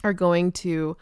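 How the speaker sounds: talking with hiccups and dry mouth; dry mouth, hiccups breaking in. Real, not acted. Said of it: "I have the hiccups and, um, apparently dry mouth".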